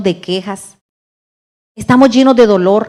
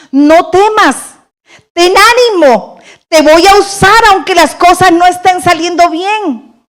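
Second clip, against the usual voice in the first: voicing God's comfort; 7 semitones higher, 5 dB louder than usual. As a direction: speak as God lifting up the fearful. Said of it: "para decirnos".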